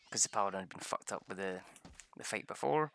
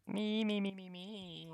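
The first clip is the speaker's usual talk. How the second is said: higher mocking chant; 9 semitones higher, 5 dB quieter, slower than usual. Mocking the selfish Paladin player, sing-song mock. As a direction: sneer the me's.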